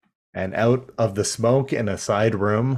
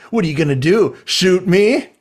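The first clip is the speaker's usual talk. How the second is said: much higher, fast mocking jeer; taunting Starscream; 9 semitones higher, 3 dB louder than usual. Joining in Starscream's taunt at Megatron, high and jeering. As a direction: goad him to shoot, high-pitched.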